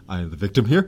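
loud, mock-proud protest of innocence; hearty declaration. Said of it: "give a hearty".

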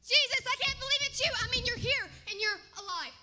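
loud, high, bursting with joy; overjoyed. Acted. Peter greets the risen Jesus, overjoyed and loud. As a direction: shout it like you can't believe your eyes.

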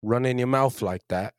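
put-on London Cockney street talk; London street accent. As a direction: play a confrontational London lad. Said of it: "I used to be all right at it".

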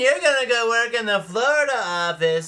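high, loud, gushing congratulations; hammed-up big-shot handing out rewards; excited boss. Boss promoting Frank to the Florida office, over-the-top excitement.

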